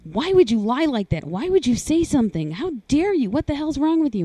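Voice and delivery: brother's accusing yell, retold. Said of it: "is yelling at me".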